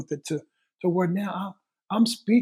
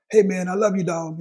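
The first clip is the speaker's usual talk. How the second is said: mock casual buddy; 2 semitones higher, 6 dB louder than usual. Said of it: "Not that kinda on the phone call".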